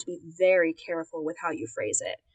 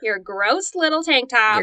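slow, disgusted sneer; 4 semitones higher, 5 dB louder, slower than usual. Acted. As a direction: spit out the words in disgust. Mocking disgust at character.

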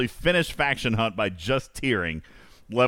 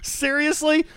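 high, incredulous question; can't believe what you just heard; surprised; slower than usual. Real, not acted. Host shocked crabs taste bad.

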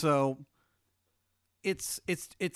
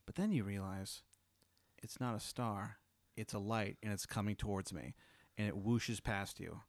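hushed, lower storyteller voice; game master's scene setting; 4 semitones lower, 7 dB quieter than usual. Acted. Game master describing a light approaching the player, hushed narration. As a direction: narrate softly and low, letting it build.

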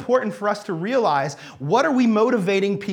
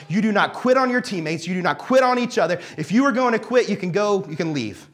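fired-up coach; 3 semitones higher than usual. Retold or imitated. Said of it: "I was really animated and really fired up".

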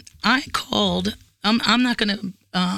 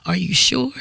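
retold condescending question. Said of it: "My asshole puckered up with the".

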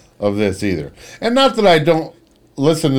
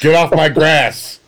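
put-on grumpy old man; 3 semitones higher than usual.

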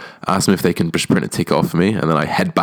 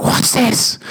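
high squawking mock scream. Security woman shrieking at the festival-goer. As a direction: shriek it up high like a guard catching you. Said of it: "Like, screaming at me".

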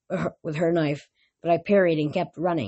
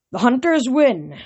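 announced without pleasure; 6 semitones higher, 5 dB louder than usual. A narrator's reading. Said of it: "Karen announced with, without pleasure".

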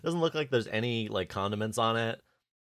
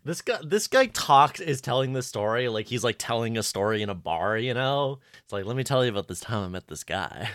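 put-on southern accent. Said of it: "I'm not very good at doing a southern accent".

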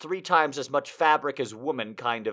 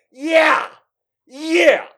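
cheering; 11 semitones higher, 10 dB louder than usual. Retold or imitated. Cheering heard from next room.

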